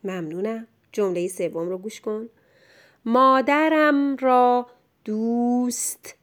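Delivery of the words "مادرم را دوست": مادرم read slowly as a whole; measured first reading. Shown as a demonstration. Teacher introduces the third sentence to a pupil, slow and clear.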